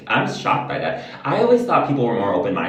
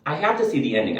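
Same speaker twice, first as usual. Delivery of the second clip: higher-pitched exasperated pushback; retold firm refusal; 4 semitones higher than usual. Vlogger to sister who wants to leave, exasperated retold refusal. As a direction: put your foot down, re-enacting a sibling spat.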